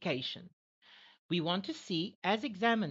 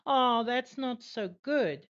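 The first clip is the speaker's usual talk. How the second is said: sad falling tone; 4 semitones higher, 5 dB louder, slower than usual. Shown as a demonstration. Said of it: "it is a lower intonation because obviously I'm feeling sad".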